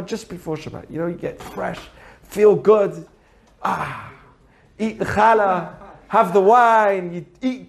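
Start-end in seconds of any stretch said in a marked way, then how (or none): 3.6-4.1 soft relieved "ah"; contented sigh. Acted. Teacher savouring getting ready for Shabbat, contented sigh. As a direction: sigh with pleasure, freshly washed. Relishing feeling fresh before Shabbat.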